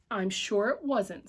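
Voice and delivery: slow, soft soothing reply; calm the boy gently; a touch of a worried mother's comfort; mild reassurance. Acted.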